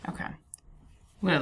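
slow hushed whisper. Real, not acted. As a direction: whisper while backing off. Pulling back from the door.

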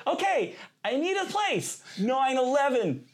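high, loud, slowed-down stage calling; imitated improv show. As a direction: imitate calling across a comedy club, stretching the words. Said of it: "shout out sad suggestions to improv actors".

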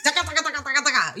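mocking "taka-taka" noise; mock rapid chatter. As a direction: rattle off nonsense syllables in imitation. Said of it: "All I hear is taka".

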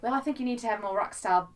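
put-on amateur New Zealand accent, playful; lightly hammed-up Kiwi voice. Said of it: "That accent".

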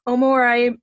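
talking through a mouthful; words around a bite of food; mouth full. Real, not acted. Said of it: "I shouldn't speak with my mouth full".

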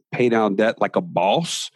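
fired-up course title, landing on Boss. Shown as a demonstration. Coach names his debt course to fire people up, like a boss. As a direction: say the title with swagger. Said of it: "you have to say it like that".

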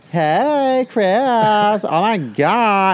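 high, loud, drawn-out squeal; imitating an over-the-top campy greeting; mock gay-friendly gushing. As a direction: gush with exaggerated familiarity. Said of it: "demeanor and their vernacular will change".

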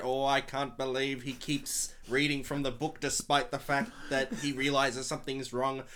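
low, measured film-legend impression; Orson Welles. Shown as a demonstration. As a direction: intone it as a regretful old director. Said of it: "your Orson Welles is mixing a lot with your Roger Ebert".

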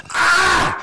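high, loud mock cry of pain; buddy faking a knee injury, loud high whine; hammed-up injured whine. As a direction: overplay a fake knee injury.

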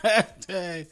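slow savoring repeat; drawn-out echo. Real, not acted. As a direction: stretch the words out. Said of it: "I call that hashtag electric boogie".

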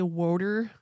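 "water" said as "wooder"; Pennsylvania pronunciation. Shown as a demonstration. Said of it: "say water instead of water".

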